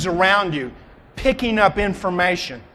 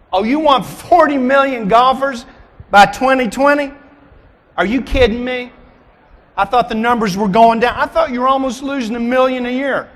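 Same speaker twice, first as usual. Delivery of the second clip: higher-pitched mock disbelief; mock incredulous; 4 semitones higher than usual. Speaker challenging his audience on forty million golfers, mock incredulous. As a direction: act taken aback by an outlandish goal. Acts surprised at golf industry's goal.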